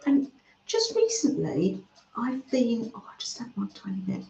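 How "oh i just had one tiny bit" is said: hurried, much softer words round a bite; mouth full. Real, not acted. Eating mince pie on camera, mouth full and much softer. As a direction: talk fast through a mouthful. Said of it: "I can't talk in my mouth full".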